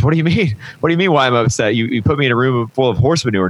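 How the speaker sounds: a hint of a kid snapping back in disbelief; indignant boy. Boy stuck in manure complaining to researchers, mildly indignant.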